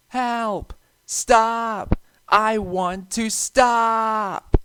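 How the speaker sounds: high, loud, desperate cries for help; panicked shout. A narrator's reading. Runaway engine pushed downhill, screaming in panic. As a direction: scream it as you lose control.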